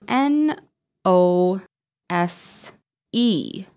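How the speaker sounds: N O S E named one letter at a time; spelling letter by letter. Shown as a demonstration. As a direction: say each letter of N O S E separately. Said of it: "So I will look at the letters".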